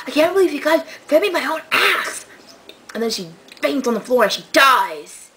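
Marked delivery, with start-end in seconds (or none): 0.1-2.2 shocked outcry. Retold or imitated. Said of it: "and then she's like".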